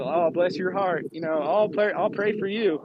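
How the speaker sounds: mock Southern manners with a wink; winking Southern irony. Yankee imitating Southern manners, with winking dry irony. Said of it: "a little winking irony, a little dryness".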